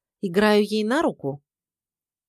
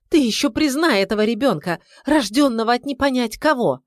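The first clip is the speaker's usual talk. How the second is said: higher, louder furious outcry; angry shout; 5 semitones higher, 5 dB louder than usual. A narrator's reading. Wife shouting at husband about his illegitimate child. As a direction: hurl it at him.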